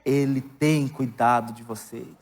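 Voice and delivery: preaching. Acted. Pastor urges the church to rest in scripture, preaching fervently. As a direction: lean into the scripture with full conviction.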